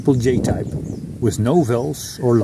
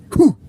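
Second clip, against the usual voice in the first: snorkel blast; 12 semitones higher, 5 dB louder than usual. Shown as a demonstration. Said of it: "The second blast should clear the snorkel".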